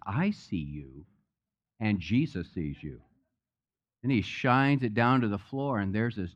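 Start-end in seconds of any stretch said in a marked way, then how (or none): 0.1-3.0 lightly voiced parrot, low and soft; a hint of a parrot, pitched down and softened. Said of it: "And the parrot says".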